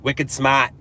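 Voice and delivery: put-on Boston accent with dropped R; light Boston-accent catchphrase.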